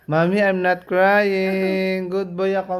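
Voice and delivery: slow, drawn-out coaxing line; modelling child's plea. Shown as a demonstration. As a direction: speak up slowly on a child's behalf. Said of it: "Then you ask Mommy again". (mabagal na pagsasalita para sa bata)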